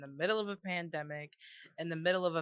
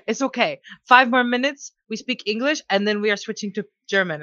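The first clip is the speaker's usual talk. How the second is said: pushy club guy; 5 semitones higher, 12 dB louder than usual. Retold or imitated. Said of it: "And he goes".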